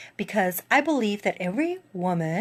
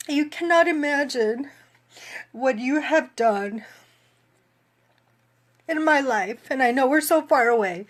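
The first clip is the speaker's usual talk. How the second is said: slightly raised, choked-up voice; tearful gratitude; 3 semitones higher than usual. Real, not acted. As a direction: speak through tears of thanks. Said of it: "Oh my God, I'm crying".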